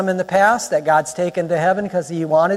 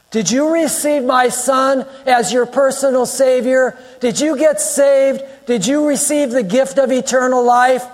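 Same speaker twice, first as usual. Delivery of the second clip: lightly acted judge, raised pitch; judge's questioning; 6 semitones higher than usual. Preacher plays God questioning a soul at judgment, formal interrogation. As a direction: press each question like a court examiner.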